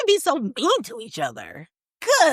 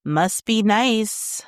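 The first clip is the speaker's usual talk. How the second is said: snide mock drawl; much slower than usual. Mocking the phrase.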